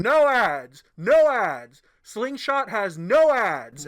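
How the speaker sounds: hammed-up ad shouting; retold ad scream. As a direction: yell it like a pushy ad. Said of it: "he starts screaming".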